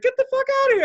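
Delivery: high, hollering amazement; loud mock disbelief. Drunk customer to his stripping coworker, loud disbelief. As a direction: crow it like a wild coincidence. Acting out loud bar reaction.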